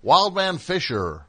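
hammed-up radio DJ voice; booming late-night DJ, slowed; Dudio radio voice. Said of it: "If Dudio did it, would be like".

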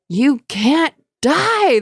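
high, slow wailing spirit voice; seething shrieking spirit. Acted. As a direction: wail it like a desperate ghost. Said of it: "the spirit wailed".

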